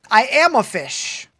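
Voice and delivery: slow deliberate. Pretend. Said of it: "If you say out loud".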